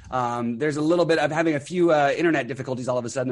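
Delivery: talking through hiccups; hiccuping mid-sentence. Real, not acted. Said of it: "Apparently, I'm hiccuping".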